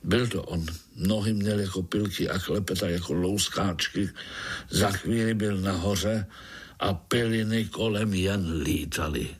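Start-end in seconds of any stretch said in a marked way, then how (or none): none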